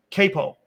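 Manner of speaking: "kepo" said as KAY-po, ending -o; Aramaic variant. Shown as a demonstration. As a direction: open "kepo" with a kay sound. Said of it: "I've heard all four pronunciations".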